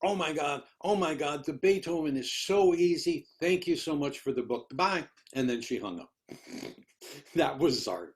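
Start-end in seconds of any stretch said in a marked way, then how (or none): 0.0-5.1 higher, gushing thanks on the phone; a thrilled colleague calling to say thanks; excited gushing. Retold or imitated. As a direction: gush with delight like a grateful friend. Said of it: "Zart was saying".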